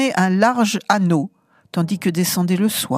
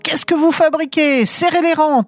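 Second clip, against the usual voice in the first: mock thunderous order; 8 semitones higher than usual. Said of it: "tonnèrent les officiers".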